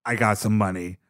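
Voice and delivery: low, soft, slowed-down conspiratorial voice; lightly voiced plotter, drawn out; scheming Grimace. Grimace pitches the heist to the crew, low and slow.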